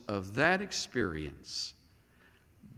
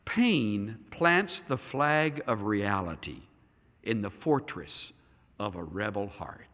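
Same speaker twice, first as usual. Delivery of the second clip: slow, weighty, each phrase set apart; slow restatement; 4 semitones lower than usual. Shown as a demonstration. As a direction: let each phrase land slowly. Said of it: "Let me say that again".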